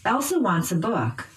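"Elsa" and "book" stressed by pitch; noun stress. Shown as a demonstration. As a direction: lift "Elsa" and "book" in "Elsa wants a book", then fall. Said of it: "using pitch change".

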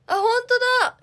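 very high, loud real exclamation; surprised outcry. Real, not acted. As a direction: burst out as if you just spotted it. Suddenly spots something in stream.

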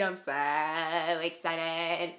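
slow excited. Shown as a demonstration. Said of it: "I'm good at voices".

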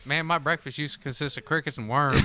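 hammed-up hick country accent. Amusing friends with outdoor tales, country accent. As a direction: spin a yarn in country accent. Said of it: "this here is a country accent".

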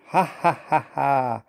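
spelt-out mocking ha-ha-ha; acted hearty laugh. A narrator's reading. Gordon laughs at Thomas down a mine, mocking. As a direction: laugh in separate, pitched beats. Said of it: "laughed Gordon".

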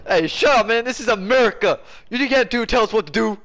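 playful shouting match in game chat; mock patriotic yelling. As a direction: shout down the other team as a proud American.

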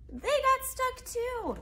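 high, very slow shocked disbelief; dismayed exclamation. A narrator's reading. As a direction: stretch it out in shock. Narrator dismayed at pile.

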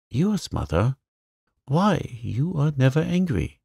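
high, disbelieving question; surprised, voice jumping up. A narrator's reading. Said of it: "Joe forgot remorse in surprise".

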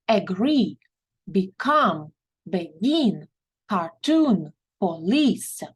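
"Agree", "become", "begin", "cartoon", "police" stressed on the second syllable; teacher reads the second-column words, stressing the ending. Shown as a demonstration. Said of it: "ми робимо наголос на другий склад". (наголос на другий склад)

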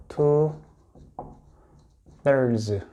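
"two" and "thirds" said apart with a pause between; "two thirds" spoken clearly to repeat; model pronunciation. Shown as a demonstration. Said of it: "이렇게 읽고요".

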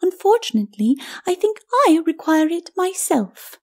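high, mock-polite lady's voice; high, self-possessed ladyship; cool lady. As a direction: decline with airy politeness, pitched well up. Lady coolly refuses him.

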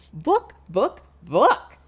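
loud excited title; building excitement; with lots of feeling. Shown as a demonstration. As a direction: call out the title with gusto. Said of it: "say it with lots of feeling".

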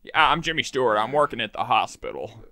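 lightly voiced old-movie actor; a hint of folksy film-star impression; amiable, lightly imitated screen actor introducing himself; Jimmy Stewart. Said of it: "I have to look Jimmy Stewart".

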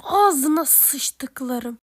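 very slow, loud curse through the teeth; seething curse. Acted. Big brother seething as his sister is held, slow loud curse. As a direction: drag out every syllable in fury.

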